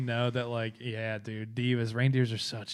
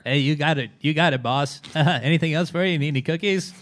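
louder chirpy elf voice; christmas elf; 4 semitones higher, 9 dB louder than usual. Pretend. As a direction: suck up to the boss. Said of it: "We got some pretty good elf voices".

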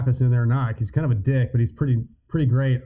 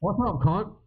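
Australian accent; 5 semitones higher, slower than usual. Shown as a demonstration. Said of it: "show me your best Aussie accent".

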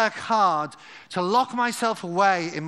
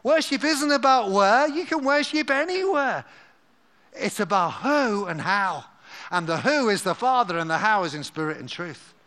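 paraphrased Jesus. Acted. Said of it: "the speaker's paraphrase version".

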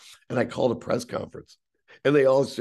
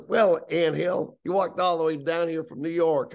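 lightly voiced needling boss, pitched higher; mocking team owner; 6 semitones higher than usual. Team owner to kid who walked from New York, mocking. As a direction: imitate a boss teasing a newcomer. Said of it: "He goes".

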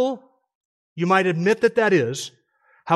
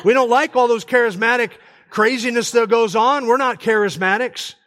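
higher-pitched Southern pastor voice; lightly put-on Southern preacher accent; 5 semitones higher than usual. Pastor denouncing charismatics to his congregation, Southern accent. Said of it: "do that in a Southern accent".

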